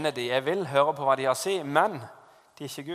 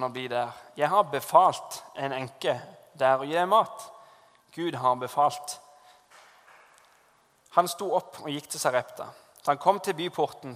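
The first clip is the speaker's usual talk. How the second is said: measured, solemn Bible reading; scripture reading. Acted. Preacher reads Elijah story to the congregation, solemn.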